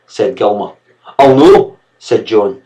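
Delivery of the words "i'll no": put-on high, loud childish refusal; defiant boy. Boy refusing to drop the cloth. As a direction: spit back a flat no.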